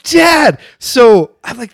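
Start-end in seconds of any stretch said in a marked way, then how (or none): 0.0-0.6 high-pitched, appalled cry to a parent; sharp retold reproach; exasperated protest. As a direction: reenact a mortified kid. Retold protest at embarrassing dad.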